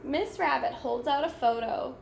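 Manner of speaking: plain reading voice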